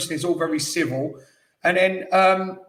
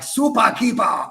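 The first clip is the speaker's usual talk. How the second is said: mock commentator shout; 4 semitones higher, 3 dB louder than usual. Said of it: "the bloke was shouting".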